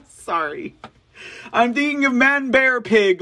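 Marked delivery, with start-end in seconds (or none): 1.5-3.2 mock excitement. Mocking Al Gore excitedly.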